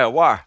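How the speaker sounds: "war" for water, the middle T dropped; Norfolk-style "war", swallowing the T. Shown as a demonstration. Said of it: "they don't pronounce T's or T H's".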